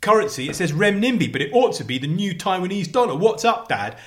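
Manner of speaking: lightly voiced kid pestering Dad; imitating his son. Father acting out his son's outburst.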